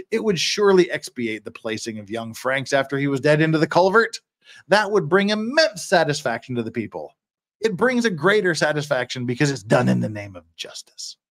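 lightly mocking courtroom reading; sarcastic oratory. Defender mocking satisfaction in the name of justice, mild sarcasm. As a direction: offer it as mock praise. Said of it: "That's sarcasm".

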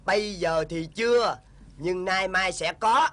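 sinister villain. Acted. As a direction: savor the threat. Kẻ ác cười rồi dọa. (kẻ ác cười nham hiểm rồi dọa)

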